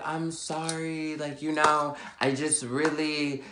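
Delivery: meek apology. Retold or imitated. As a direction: apologise softly, drawing it out. Retelling friend's meek apology.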